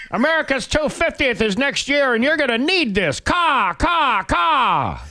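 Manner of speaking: high shrieking eagle voice, cawing; shrill screeching bird voice. Acted. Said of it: "He went".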